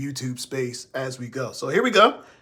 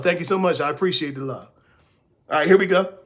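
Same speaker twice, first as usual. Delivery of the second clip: ordinary delivery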